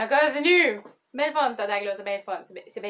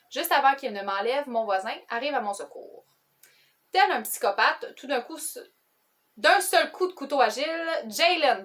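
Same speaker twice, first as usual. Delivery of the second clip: measured storytelling read with light emphasis; book blurb reading. A narrator's reading. Vlogger reads the book's summary to viewers, lightly dramatic reading. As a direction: read a thriller blurb aloud.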